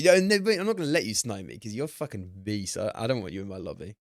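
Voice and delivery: a clumsy mock Italian accent; bad Italian accent. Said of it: "I don't even have the right to call it an Italian accent".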